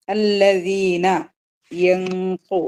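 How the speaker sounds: very slow Quranic chant on അല്ലദീന; slow recitation. Shown as a demonstration. Teacher intoning the verse for the class, very slow chant. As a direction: draw the word out like a reciter. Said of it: "lesson recitation demo".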